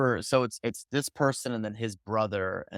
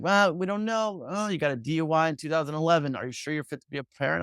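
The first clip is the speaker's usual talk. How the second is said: mocking officials; 5 semitones higher than usual.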